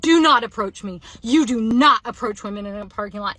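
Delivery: loud, firm re-enacted warning; emphatic mock yell, hard on "not"; retold yelling. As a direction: act out yelling someone off. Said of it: "Like, yelling it".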